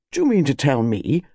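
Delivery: incredulous colonel's demand. Acted. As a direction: demand an explanation from the butler. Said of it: "demanded Colonel Bantry".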